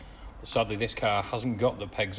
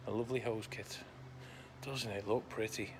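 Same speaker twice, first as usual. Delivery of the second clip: sarcastic; 10 dB quieter than usual. Real, not acted. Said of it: "I'm being really sarcastic".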